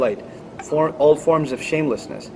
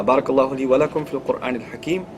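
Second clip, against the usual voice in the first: low, subdued formulaic recitation; Arabic closing blessing; 4 semitones lower, 3 dB quieter, much faster than usual. Real, not acted. Speaker closes the talk for the congregation, low Arabic blessing.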